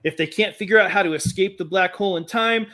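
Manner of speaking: epic movie trailer narration; story narration. Acted. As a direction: read it like an opening crawl. Reads his space opera intro.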